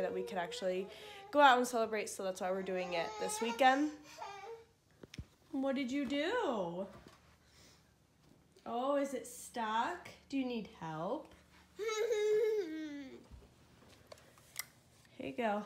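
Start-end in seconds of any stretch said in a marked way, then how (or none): 5.5-15.6 sweet parent voice for a little one. Real, not acted. Mother coaxing her toddler.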